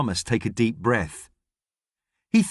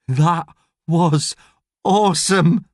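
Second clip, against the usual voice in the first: grinning; 4 semitones higher, 4 dB louder, slower than usual. Acted. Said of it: "he grins".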